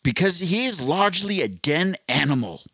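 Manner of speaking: loose Australian nature narrator; Steve Irwin. Acted. Wildlife host summing up a man's habitat, faint Australian impression. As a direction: lightly explain it in a slipping Australian accent. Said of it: "I'm so far away from the Australian accent now".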